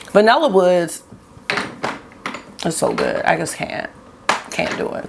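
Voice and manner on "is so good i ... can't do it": overwhelmed. Real, not acted.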